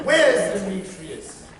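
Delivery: loud demand with a wild laugh; vengeful demand. Acted. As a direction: hunt for the rival.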